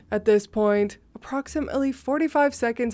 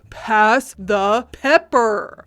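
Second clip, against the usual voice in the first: snarled; 5 dB louder, much slower than usual. Retold or imitated. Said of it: "the man snarled again".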